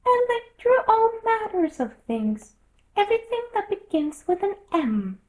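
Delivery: high, drowsy dormouse voice; sleepy dormouse. A narrator's reading. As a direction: yawn through it. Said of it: "getting very sleepy".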